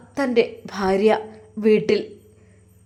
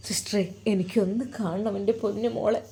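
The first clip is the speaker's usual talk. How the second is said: softer, begging "എനിക്കൊന്ന് കാണണം" with a broken voice; pleading softly; 2 semitones lower, 7 dB quieter than usual. Acted. Brother begging the nurse to see his sister, soft and tearful. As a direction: plead with the nurse, almost weeping.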